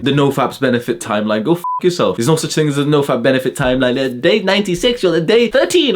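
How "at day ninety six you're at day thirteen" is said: high, sing-song mocking of YouTuber advice; mocking parody. Mocking nofap YouTubers to his viewers in a high parody voice. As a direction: parody them in a much higher, silly voice.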